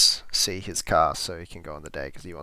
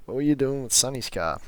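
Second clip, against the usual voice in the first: higher, quick demand, imitating the dad; hammered-out accusing question; stern dad; 5 semitones higher, 4 dB louder, faster than usual. The father confronts his son about Sonny's car.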